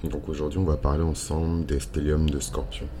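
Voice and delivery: croaky just-woke-up voice; vocal fry. Real, not acted. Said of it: "c'est ma voix du matin". (voix du matin éraillée)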